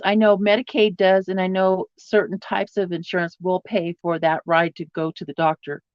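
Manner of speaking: ordinary talk, nothing marked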